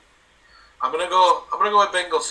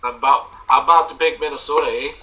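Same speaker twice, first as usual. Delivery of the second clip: mock Canadian accent; 6 dB louder than usual. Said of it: "I thought that was Canadian".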